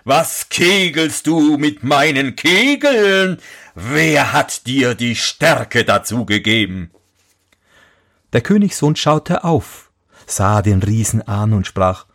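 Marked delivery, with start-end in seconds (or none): 0.0-6.9 lightly voiced giant, slow and higher; a hint of a puzzled giant. Giant questions the prince about his skittles, lightly voiced.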